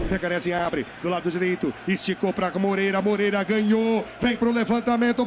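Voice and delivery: fast radio play-by-play; live play-by-play. Acted. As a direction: call the move quickly.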